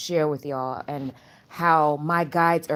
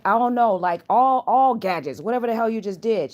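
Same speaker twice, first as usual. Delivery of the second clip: frustrated yell; 5 semitones higher, 4 dB louder than usual. Retold or imitated. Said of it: "I was like".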